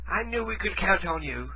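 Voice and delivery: high-pitched British prank-call voice; fake British accent. Prank caller pressing the woman not to hang up, fake British accent. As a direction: plead in a put-on British accent. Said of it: "fake British accent".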